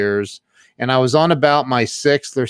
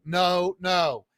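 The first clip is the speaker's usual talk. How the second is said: softer, higher repeated "no"; fading refusal; 6 semitones higher, 6 dB quieter than usual. Retold or imitated. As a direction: let the retold refusal die away.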